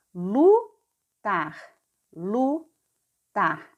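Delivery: teacher models "Lutar" for the class; sounded-out word. Shown as a demonstration. Reading the new word aloud to night-school pupils, modelled. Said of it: "ficará tar".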